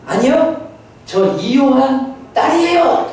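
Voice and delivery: put-on child's defiant reply. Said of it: "기진이가 저한테 갑자기 한마디를 턱 던졌어요".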